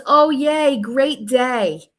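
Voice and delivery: a high, loud mock-chirpy yay; mock cheery. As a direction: fake enthusiasm, overdone. Mocking the texter's cheery reply.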